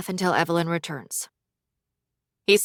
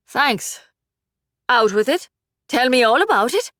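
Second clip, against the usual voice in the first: higher eager mother; 5 semitones higher, 5 dB louder than usual. Acted. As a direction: coax like a fond mom.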